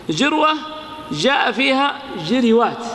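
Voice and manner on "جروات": جروات said jiriwāt, i on both j and r; vowel copied over. Shown as a demonstration. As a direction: say جروات with a short i after the r. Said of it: "بالاتباع". (جروات بكسر الجيم والراء)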